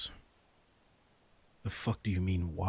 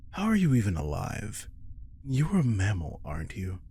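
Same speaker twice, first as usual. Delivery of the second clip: incredulous; 3 dB louder than usual. Acted. Disbelief at cold blood.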